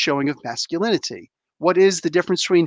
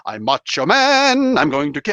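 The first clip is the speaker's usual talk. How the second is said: mock macho man; 3 semitones lower than usual. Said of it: "channeling Richard Pryor in this one".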